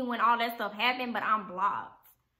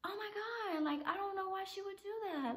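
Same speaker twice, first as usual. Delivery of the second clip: exasperated disbelief; 8 semitones higher, 15 dB quieter than usual. Real, not acted.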